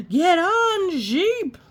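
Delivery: high loud call; loud urgent call; shouted. Acted. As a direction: shout to the sheep to get on. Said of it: "everyone shouted".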